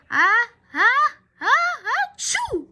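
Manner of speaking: the whole crowd sneezes. Acted. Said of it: "repeated the fans".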